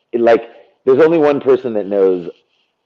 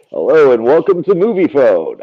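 deep radio voice; 4 semitones higher than usual. Shown as a demonstration. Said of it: "I have the deep radio voice".

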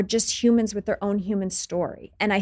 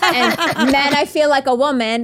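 quoting the fan while laughing, louder and higher; 5 semitones higher, 6 dB louder than usual. Retold or imitated. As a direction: laugh through the line as you retell it. Fan quoted, laughing through it.

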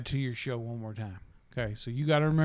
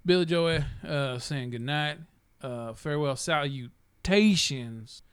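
grand farewell; slower than usual. Acted. Grand sign-off persona.

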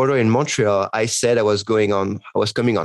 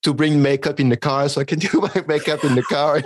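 higher, laughing while asking; laughing through the question; 4 semitones higher than usual. Retold or imitated. Asking the director about makeup in the car, laughing. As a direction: laugh at your own silly question.

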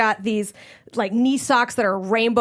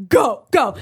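urgent urging; 5 dB louder than usual. Retold or imitated. Body urging escape.

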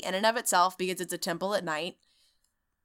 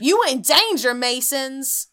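meme quote; 4 semitones higher, 5 dB louder than usual. Pretend. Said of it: "meme quote".

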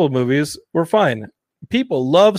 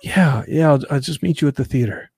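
sleepy wife. Retold or imitated. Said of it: "And she's like".

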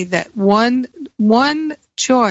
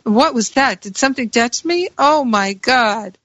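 mock fright; 3 semitones higher than usual. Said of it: "When that thing jumped out, I screamed".

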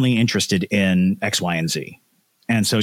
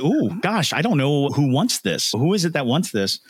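high anxious wondering; fretful; 6 semitones higher than usual. Retold or imitated. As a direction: fret aloud about who wants it. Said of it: "it's like".

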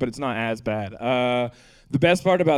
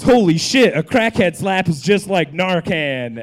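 amazed; 4 semitones higher, 5 dB louder than usual. Retold or imitated. Amazed Wendy's guy quoted.

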